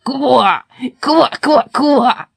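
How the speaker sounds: raucous chorus of croaks; croaking frogs. A narrator's reading. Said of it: "закричали опять".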